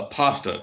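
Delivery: "pasta" with an open AH, PAHS-ta; broad "ah" in "pasta"; own pronunciation of pasta. Shown as a demonstration. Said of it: "say it again".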